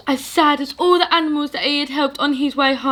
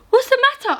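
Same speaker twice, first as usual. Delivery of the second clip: George voice; 13 semitones higher, much faster than usual. Acted. George asks the mouse.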